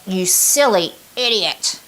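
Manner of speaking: slow, intense, self-scolding; harsh self-criticism. Shown as a demonstration. Coach demonstrating her inner critic, slow intense scolding. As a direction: bite down on each word like a stern critic. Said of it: "I would say it with that level of intensity".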